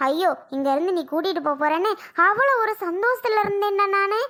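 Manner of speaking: crying while complaining to her son; half-sobbing lament of dashed hopes; tearful lament. Acted. Mother to son who sided with father, tearful lament.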